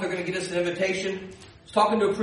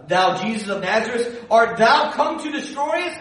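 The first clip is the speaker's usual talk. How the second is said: lightly voiced devil, rising to a challenge; devil's challenge; 4 semitones higher than usual. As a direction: build into a high, indignant question. Devil challenges Jesus from scripture.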